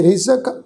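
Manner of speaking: ਰਿਜ਼ਕ with a buzzing z in the middle; slow ਰਿਜ਼ਕ with a clear z; dotted z sound. Shown as a demonstration. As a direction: say ਰਿਜ਼ਕ as rizak, not rijak. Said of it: "ਜੱਜੇ ਪੈਰ ਬਿੰਦੀ".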